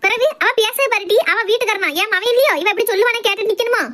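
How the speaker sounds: high-pitched indignant complaint; aggrieved mother-in-law, voice pitched high; quarrelsome ranting. Acted. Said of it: "இப்படி கத்துனீங்கன்னா".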